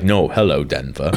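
lightly voiced big creature greeting; bigfoot voice. Imitating Bigfoot in a joke.

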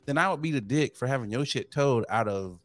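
mock outraged lecture; exasperated rant. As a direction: vent at the neighbor, rising. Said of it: "And I was just like".

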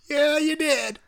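high-pitched teasing agreement; mock insistence. Co-host kidding his friend about backing down, mock high voice.

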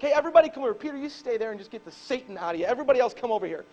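lightly voiced call to gather everyone; Jesus calling the crowd. Jesus calling the crowd over, lightly acted call. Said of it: "He's like".

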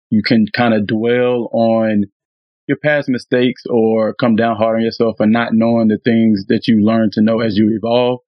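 normal talking voice

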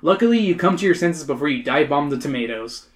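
measured audiobook-style narration; story narration. A narrator's reading. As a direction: read it out as a story.

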